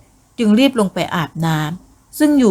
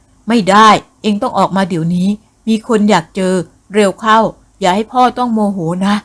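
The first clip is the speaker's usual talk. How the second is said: stern command. Acted. Father commands her out.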